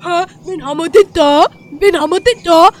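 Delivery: Oma-Stimme. Acted. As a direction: gloat like a vengeful old lady. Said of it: "Paul ist die Oma". (drohende Oma, laut und gedehnt)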